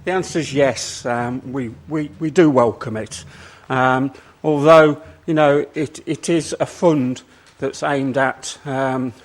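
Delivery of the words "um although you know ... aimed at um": breathless, pushing words out; short of breath while speaking. Real, not acted. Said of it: "sorry, get out of breath".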